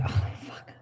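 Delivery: breathy whispered swear, barely audible; whispered curse. Real, not acted. Muted on a call, whispering a shocked curse. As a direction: hush it right down to a whisper. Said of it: "I whispered that".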